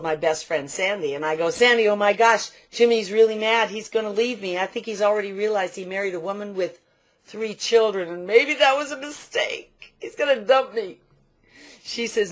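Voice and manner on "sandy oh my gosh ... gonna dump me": mock panic. Panicked call to best friend, retold.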